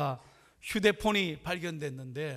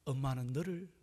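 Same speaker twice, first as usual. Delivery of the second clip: hushed, loving farewell from a mother; tender last message; 4 semitones lower, 4 dB quieter than usual. Retold or imitated. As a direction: read softly and low, fading into a whisper. Dying mother's last message, quoted.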